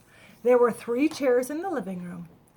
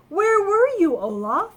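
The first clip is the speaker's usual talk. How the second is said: high, loud call; worried cry; 8 semitones higher, 6 dB louder than usual. Acted. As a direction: call out in relief and worry. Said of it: "Elsa cried".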